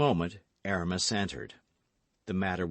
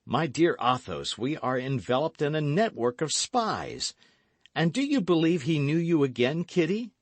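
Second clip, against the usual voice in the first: raised, urgent hero's voice; alarmed young gallant; 8 semitones higher, 5 dB louder than usual. A narrator's reading. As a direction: warn and question with rising pitch. D'Artagnan alarmed at spies.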